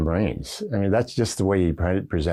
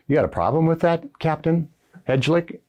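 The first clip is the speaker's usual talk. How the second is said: mock challenge from the general, pitched way up; gruff general; 11 semitones higher than usual. General challenges the captain about the spit chaw, in a high mock gruff voice.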